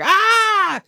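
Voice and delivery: startled guy voice. Retold or imitated. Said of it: "there's a guy that jumps out".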